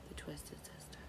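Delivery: breathy whispered quip; muttered joke to herself; whispered aside. Real, not acted. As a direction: toss it off under your breath. Muttered aside after rant.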